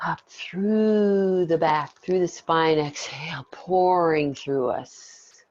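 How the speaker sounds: slow, hushed breath guidance; guided meditation. Acted. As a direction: draw each word out slowly. Leads breathing exercise.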